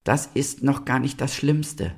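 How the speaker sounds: high-pitched, sorrowful little star; sad star. A narrator's reading. Star answers the animals trying to comfort it, mournful. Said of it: "antwortete der Stern".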